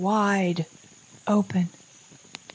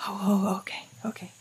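hushed whisper; 2 semitones higher, 5 dB quieter, faster than usual. Acted. Sudden quiet discovery.

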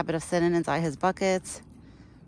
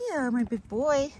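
tender cooing; 5 semitones higher, slower than usual. Real, not acted. Cooing to the deer.

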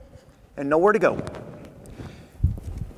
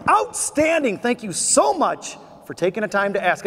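enthusiastic reply; 2 semitones higher than usual. Shown as a demonstration. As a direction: answer the greeting with over-the-top enthusiasm. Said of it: "the next time somebody says".

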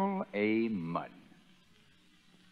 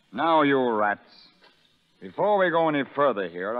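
louder, barking address; loud command; 5 dB louder than usual. Acted. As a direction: call the rats to attention. Sergeant addresses prisoners.

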